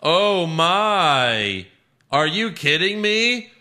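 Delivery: excited announcer, high and loud; Michael Cole. Retold or imitated. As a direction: belt it like a hyped commentator. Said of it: "Michael Cole catchphrases".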